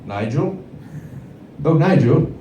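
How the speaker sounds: lightly voiced posh aristocrat; posh rich man. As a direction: call the butler like a lord. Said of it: "you'd be able to go like".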